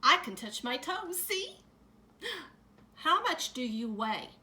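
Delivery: put-on high, loud eager child; child interrupting the librarian, high and loud; eager kid. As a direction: show off like an excited little kid. Child interrupting story time.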